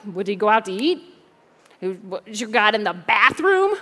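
mildly mocking question, slowing and rising at the end; cocky taunt. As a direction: taunt your rivals with mock innocence, stretching "bathroom". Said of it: "Elijah's feeling pretty cocky".

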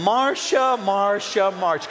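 rising then falling mock whine of the name; Brady Bunch whine. A light Brady Bunch whine of the sister's name. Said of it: "Remember Brady Bunch?".

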